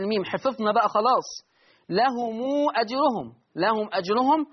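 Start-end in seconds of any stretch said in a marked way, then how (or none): 1.9-4.5 لهم أجرهم with the mim of لهم stretched into a long u; with long mim link. Shown as a demonstration. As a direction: lesson reciting لهم أجرهم with a full lengthened mim link. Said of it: "الصلة مع الإشباع".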